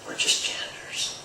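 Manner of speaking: quiet, slow grinning aside; amused little aside, a touch slow. Retold or imitated. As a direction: let the grin show, slow and soft. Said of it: "he grinned like".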